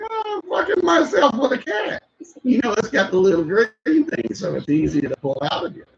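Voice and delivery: high, shouted mom voice; Sandler's mom voice. Retold or imitated. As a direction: shriek it like a gleeful mom. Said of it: "She's like".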